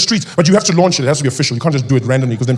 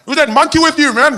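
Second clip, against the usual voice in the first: racist heckler; 11 semitones higher, 5 dB louder than usual. Retold or imitated. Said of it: "Someone would go".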